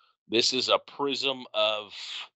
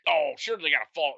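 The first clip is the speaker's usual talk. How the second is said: put-on Norwegian accent; 5 semitones higher than usual. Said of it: "in a Norwegian accent".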